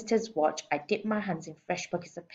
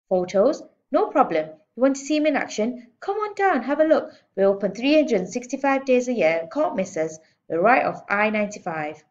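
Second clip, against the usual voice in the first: higher, louder eager pitch; salesman pitch; 5 semitones higher, 6 dB louder than usual. A narrator's reading. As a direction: sell the zoo to the caller. Manager pitching on phone.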